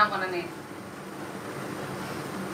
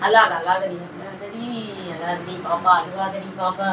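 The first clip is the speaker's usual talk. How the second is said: soothing; 4 semitones lower, slower than usual. Real, not acted. Husband soothes crying wife.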